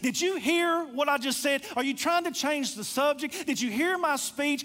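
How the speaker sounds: indignant, disbelieving run of questions; angry older brother. Acted. Older brother challenging his father's answer, angry. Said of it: "the anger again coming up and him saying".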